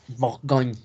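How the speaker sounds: Bourgogne ending in an ñ sound, final E silent; French Bourgogne, silent last vowel; French pronunciation. Shown as a demonstration. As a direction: say Bourgogne with gn like Spanish ñ. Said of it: "como una ñ".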